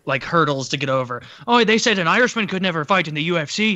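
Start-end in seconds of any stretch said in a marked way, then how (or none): 1.5-3.7 mocking Conor's whine. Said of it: "contrived hurdles".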